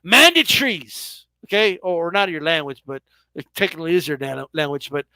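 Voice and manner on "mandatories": Mandatories drawn out slowly in a mock British accent; imitating a British accent, slow and deliberate. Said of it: "in, in their accent".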